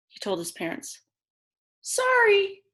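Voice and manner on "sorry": long high sing-song sorry, loud; parents' sorry. Acted. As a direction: draw out a sorry parents' sigh. Parents almost refuse.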